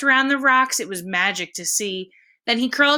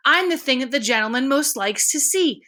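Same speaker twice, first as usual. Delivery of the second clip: higher, breathless with delight; delighted surprise; 4 semitones higher than usual. Acted. Edward realizing the visitor likes him best, thrilled. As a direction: let the joy of being chosen spill out. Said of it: "gasped Edward".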